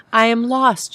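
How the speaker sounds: loud, high, out of breath; breathing hard. A narrator's reading. Lost mother to a stranger, out of breath. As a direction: gasp it out after running. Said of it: "breathing hard".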